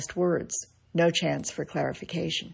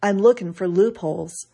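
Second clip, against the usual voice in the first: louder, quick dry snap; snappy retort; 6 dB louder than usual. Retold or imitated. W C Fields answering why he reads the Bible, snapping. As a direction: toss the quip back sharply.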